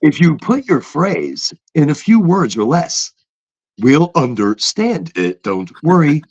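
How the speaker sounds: lightly mimicked automated phone system; a hint of robotic customer-service prompt; computer voice. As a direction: read it like a phone bot. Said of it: "is a computer voice".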